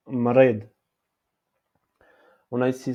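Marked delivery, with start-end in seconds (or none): 0.1-0.7 Mrid with a trilled R, said firmly; rolled R. Shown as a demonstration. Teacher repeating the word for the class, R rolled. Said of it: "c'est mrid".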